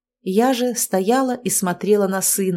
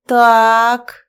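frowning; 3 semitones higher, 9 dB louder than usual. A narrator's reading. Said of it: "нахмурилась".

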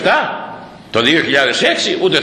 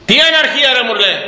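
higher, louder outraged quote; mock indignant retort; 9 semitones higher, 3 dB louder than usual. Quoting a man who cries anarchy, higher and louder. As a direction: throw back the accuser's words, higher and louder.

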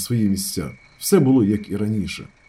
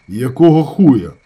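slow, louder, gruff-voiced injured man; deliberate question; 6 dB louder, slower than usual. A narrator's reading. Injured teammate questions the brigadier, slow and gruff. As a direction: drag it out, measured and heavy. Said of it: "розважливо запитав".

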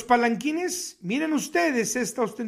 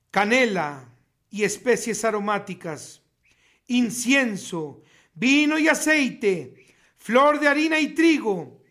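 measured, solemn reading of a list; slow, weighty Bible reading; scripture reading. Acted. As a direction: read it out like holy writ to the flock.

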